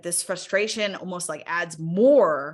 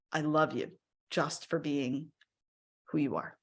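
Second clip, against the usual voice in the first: tender self-talk. Shown as a demonstration. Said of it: "saying, like".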